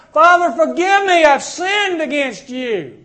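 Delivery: high, loud cry, slowing on the confession; earnest plea for forgiveness. Acted. Preacher voicing a sinner crying out to God, earnest plea. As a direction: beg the Father, drawing out the last words.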